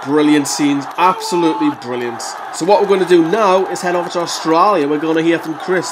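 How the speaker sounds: hammed-up attempt at an Australian accent; poor Australian accent. Host handing over to Chris in Australia, poor Australian accent. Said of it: "That's my poor Australian accent".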